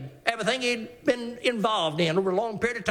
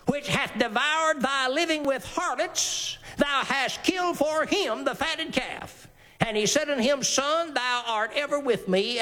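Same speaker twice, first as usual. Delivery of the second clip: scripture reading; 4 semitones higher than usual. Acted. Reads scripture dialogue aloud.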